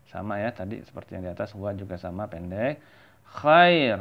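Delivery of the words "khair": "Khair" louder and clearly sounded, rasped kh; careful pronunciation demo. Shown as a demonstration. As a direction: sound out "Khair" firmly for learners. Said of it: "Nah, ini khair".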